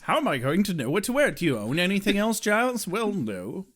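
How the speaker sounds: quick, fretting put-on British voices; mock English accent. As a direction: act out a flustered British exchange. Acts out Giles's exchange, English accent.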